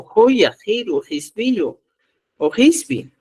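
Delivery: "Joya", "Giro" and "Gispi" said with a rasped j or g sound; forms he does not use. Shown as a demonstration. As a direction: list the rejected variants clearly. (variantes que no se usan, con j áspera)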